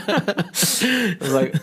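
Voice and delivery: words spoken through a real laugh, slow; laughing while talking. Real, not acted. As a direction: let the laugh carry the words. Laughs retelling the surprise call.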